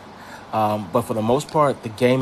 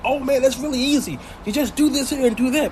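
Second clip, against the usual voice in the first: much higher, easygoing imitation voice; helpful fellow player; 11 semitones higher than usual. Imitating players answering a help request, high-pitched voice. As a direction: pitch it up as another player chiming in. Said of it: "they're gonna like".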